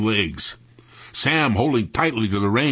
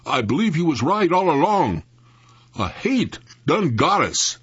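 croaking; 6 semitones higher, 4 dB louder than usual. Acted.

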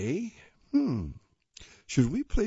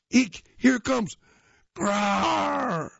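higher, louder cartoon shriek of fright; mock scared; 11 semitones higher, 5 dB louder, slower than usual. Cubs fleeing the cave roar, high loud mock fright. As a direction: squeal like a frightened cub.

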